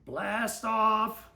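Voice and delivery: mock countdown shout; yelled. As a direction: call it out for liftoff. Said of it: "yelled Louie".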